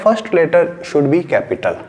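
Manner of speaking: slow, word-by-word rule for notes; slow dictation. Shown as a demonstration. Teacher dictating the rule to students, slowly and clearly. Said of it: "वो आप लोगों को अपनी notebook के अंदर लिखना है".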